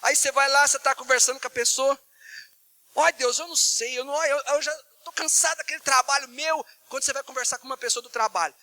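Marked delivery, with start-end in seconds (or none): 2.9-6.6 tom de queixa cansada, mais agudo; desabafo entonado. Acted. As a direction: reclame como quem desabafa com alguém íntimo. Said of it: "você muda a entonação de voz". (desabafo queixoso, voz mais alta)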